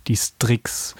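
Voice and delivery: hushed reveal of the owl's name; dramatic whisper. Pretend. Presenting the owl, hushed reveal. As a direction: whisper it like a secret. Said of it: "dramatic owl name reveal".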